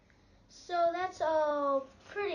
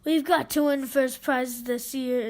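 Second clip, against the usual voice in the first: exclaiming; 4 dB louder than usual. Acted. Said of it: "exclaimed Harold".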